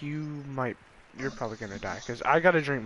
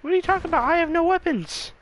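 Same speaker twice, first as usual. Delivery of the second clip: excited; 4 dB louder, faster than usual. Real, not acted. Shouting mid-fight.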